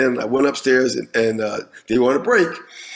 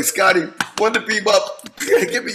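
mock plea to be beamed up; 6 semitones higher than usual. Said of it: "I'm like".

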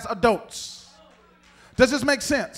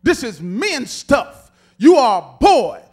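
louder, slower angry scolding, talking down; scornful big brother; 3 semitones higher, 9 dB louder than usual. Retold or imitated. Older brother Eliab scolding David for showing up at the battle, loud and scornful. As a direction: put the little brother in his place. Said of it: "Essentially, he's saying".

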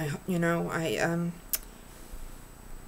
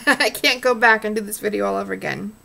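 laughing; 2 semitones higher, 7 dB louder, faster than usual. Real, not acted. Laughing after flubbing her words.

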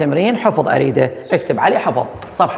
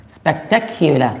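slow modelling; much slower than usual. Shown as a demonstration. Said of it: "teacher models slowly".

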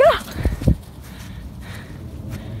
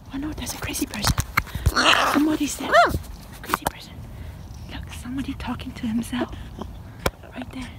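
whisper; 4 semitones lower, 8 dB quieter, faster than usual. Pretend. Mock hiding from a stranger.

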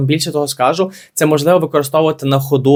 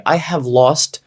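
slow read; much slower than usual. Shown as a demonstration. Teacher reads English example.

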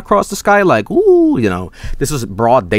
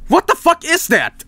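high-pitched stunned cry; retold panic. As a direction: squeal it out in disbelief.

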